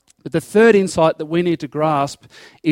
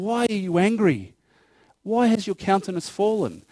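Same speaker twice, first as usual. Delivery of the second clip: softer, tender fatherly question; gentle loving appeal; 2 semitones higher, 4 dB quieter than usual. Acted. God lovingly questions Cain, softly tender. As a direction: ask it gently, like a father to his son. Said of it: "lovingly appeals to him".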